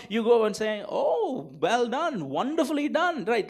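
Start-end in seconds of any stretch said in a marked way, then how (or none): 0.9-3.2 mock praise; understated sarcastic congratulations. Shown as a demonstration. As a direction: praise a botched job with quiet sarcasm. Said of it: "That's sarcastic".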